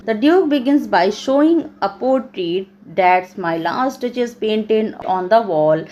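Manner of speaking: measured, slow English read-out; slow classroom reading; reading aloud. Acted. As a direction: read the study notes out slowly, phrase by phrase. Reads model answer aloud.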